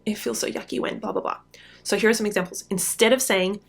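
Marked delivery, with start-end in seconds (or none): 0.0-1.4 empathetic groan. Shown as a demonstration. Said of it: "It's like".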